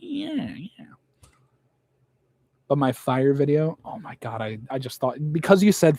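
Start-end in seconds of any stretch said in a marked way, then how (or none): 0.0-0.8 whispering. Real, not acted. Muttered after resigned remark.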